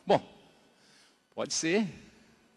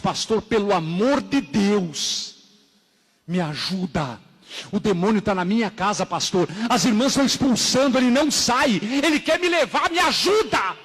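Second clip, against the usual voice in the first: acted cry for help, building higher and louder; desperate plea; 4 semitones higher, 4 dB louder than usual. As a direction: beg for rescue, climbing into near-shouts.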